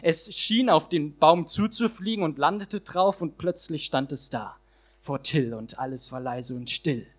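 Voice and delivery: rhythmic rhyming performance; slam poem recitation. Acted. Poet performing his slam text to the audience, rhythmic. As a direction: drive the rhymes home for the crowd.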